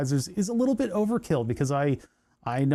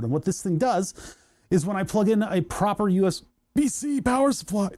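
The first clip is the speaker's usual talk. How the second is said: talking through hiccups; words broken by a hiccup; 4 semitones higher than usual. Real, not acted. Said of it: "hold on, I'm hiccuping".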